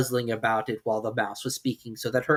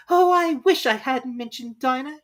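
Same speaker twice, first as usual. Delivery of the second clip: put-on slow, higher melancholy girl; 13 semitones higher, 6 dB louder, slower than usual. Alice to herself, slow and melancholy. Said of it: "in a melancholy tone".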